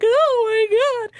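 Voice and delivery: a slow astonished gasp of emotion; overwhelmed. Retold or imitated. Overwhelmed by his kindness.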